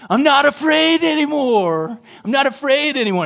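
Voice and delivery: put-on high, loud, kid-like defiant declaration; Macaulay Culkin in Home Alone. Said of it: "Little Macaulay Culkin".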